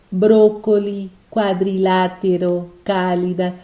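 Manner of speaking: each word said slowly with the stress on the antepenultimate syllable; esdrúxulas read slowly. Shown as a demonstration. Teacher reading a list of Spanish esdrújulas slowly aloud. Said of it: "Veja que todas essas palavras são esdrúxulas".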